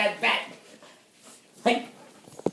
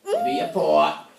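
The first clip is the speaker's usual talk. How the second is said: put-on high squeaky baby-talk voice; squeaky praising a dog; 4 dB quieter than usual. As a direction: coax the dog sweetly, very high. Coaxing the dog for tricks.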